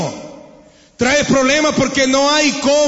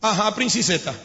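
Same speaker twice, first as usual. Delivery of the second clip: soft, lower mock sweetness; sarcastic; 4 semitones lower, 6 dB quieter than usual. Husband mocking his wife, soft sarcastic sweetness. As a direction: say it sweetly but mean the opposite. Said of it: "Se lo dice con sarcasmo".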